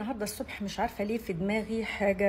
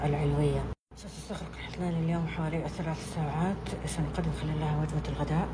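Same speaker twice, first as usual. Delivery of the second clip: flight attendant announcement. Shown as a demonstration. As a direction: welcome passengers aboard, smooth and formal. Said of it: "هنعمل المضيفة بقى".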